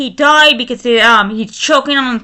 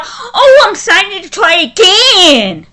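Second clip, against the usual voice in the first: high sneering mock voice; mocking the father; 5 semitones higher than usual. Vlogger mocking the father's words, sneering mock voice. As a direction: mimic him with scornful glee. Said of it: "And now he's going".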